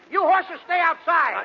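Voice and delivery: high, slow, laughing shout at the horses; shouted order. Acted. Costello ordering his horses to wait outside, comic shout. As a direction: bellow it out to the horses, half laughing.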